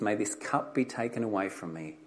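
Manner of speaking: softly quoted plea, kept calm; calm, solemn prayer. Retold or imitated. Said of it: "Jesus says those words calmly".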